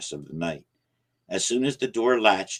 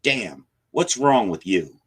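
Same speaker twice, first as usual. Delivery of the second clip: louder and slow, exasperated; old man fed up; angry; 2 semitones higher, 6 dB louder, slower than usual. Acted. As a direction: drag it out in disgust.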